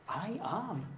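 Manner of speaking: "I am" drawn out with weight; quiet emphasis on "I am"; emphatic. Retold or imitated. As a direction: lean firmly on "I am", without raising the volume. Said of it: "emphasizing it".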